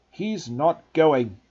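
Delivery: slow, loud, stern refusal; firm refusal. Acted. Uncle refusing Hagrid, slow stern growl. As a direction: plant your feet and refuse.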